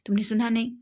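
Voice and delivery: angry yell, building to a loud shout on the last words. Acted. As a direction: yell at him for not listening. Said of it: "wing के ऊपर चिल्लाता है". (गुस्से में चिल्लाते हुए)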